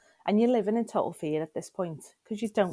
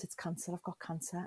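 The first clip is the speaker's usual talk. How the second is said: stunned quiet admission; 8 dB quieter than usual. Retold or imitated. Telling managers the news.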